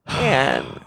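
soft, low, hammed-up breakdown; mock tearful. Faking a solo podcast breakdown, mock tearful collapse. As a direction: give up as if pretending to cry. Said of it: "probably cry because I'm alone".

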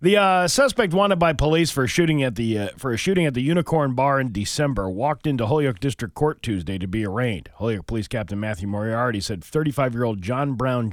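reading a crime report aloud; matter-of-fact newsreader delivery; news read. Acted. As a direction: read the local news story in a steady announcing tone. Reads out a local news report.

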